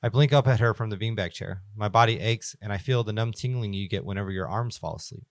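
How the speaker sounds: measured first-person story reading; horror story narration. A narrator's reading. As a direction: narrate it carefully, phrase by phrase. Reads horror story aloud.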